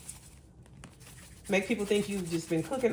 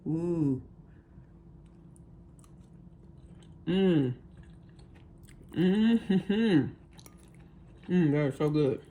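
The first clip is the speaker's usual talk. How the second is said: mm of real enjoyment; savoring delicious food; 4 semitones lower, slower than usual. Real, not acted. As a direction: savor the bite aloud. Tasting sounds after bite.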